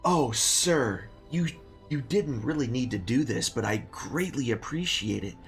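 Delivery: put-on rambling old innkeeper voice; a hint of a grateful old barkeep; very old man.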